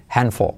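"handful" said as "hanfol"; D left out. Shown as a demonstration. Teacher showing the silent letter, "handful" without D. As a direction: skip the D in "handful". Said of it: "No se pronuncia la D".

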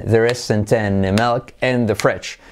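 slow, steady beat through the phrase; drawn-out rhythmic model sentence; rhythmic drill. Shown as a demonstration. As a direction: chant it slowly for learners. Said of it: "Hacemos con ritmo".

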